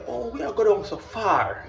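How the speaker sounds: slow, laughing through the words; slow amused laugh while speaking. Retold or imitated. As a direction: chuckle at how far down it goes. Retelling the descent, laughing.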